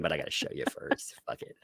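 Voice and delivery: hushed whisper. Real, not acted. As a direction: drop into a whisper. Whispered aside.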